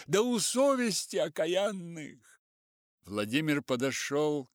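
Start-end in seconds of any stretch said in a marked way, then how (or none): 0.1-2.4 high, loud angry voice; angry crowd. A narrator's reading. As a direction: curse the officials. Crowd cursing officials.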